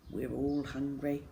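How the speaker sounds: ordinary delivery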